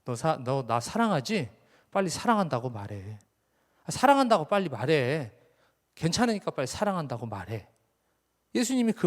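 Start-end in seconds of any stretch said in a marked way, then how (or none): 0.0-7.7 lightly voiced loving Jesus pleading softly; gentle coaxing. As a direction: coax him kindly to say it. Jesus gently urging Peter.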